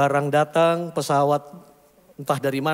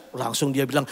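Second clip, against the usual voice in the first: usual speaking voice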